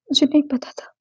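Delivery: whisper. Acted. Grief-struck confession.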